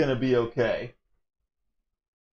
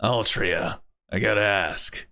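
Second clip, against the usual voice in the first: lightly voiced aggrieved man; 3 semitones lower than usual. Rival questions Altria giving up throne, lightly aggrieved. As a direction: lower voice, questioning and put out. Reads male character's lines.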